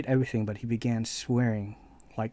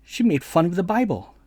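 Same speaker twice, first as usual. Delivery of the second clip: imitating indignant friend; 6 semitones higher, 6 dB louder than usual. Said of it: "He goes".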